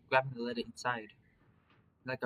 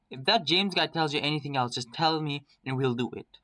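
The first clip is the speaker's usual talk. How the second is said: louder, insistent character line; raised voice, pushing for agreement; urgent insistence; 3 semitones higher, 5 dB louder than usual. Acted. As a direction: press the point urgently. Urgent plea to companion.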